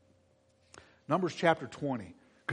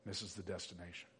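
much lower and softer; hushed sorrow; 8 semitones lower, 16 dB quieter than usual. Real, not acted. Preacher on Moses' loss, hushed and low. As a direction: let it drop almost to nothing.

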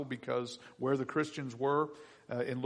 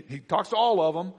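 ordinary talk

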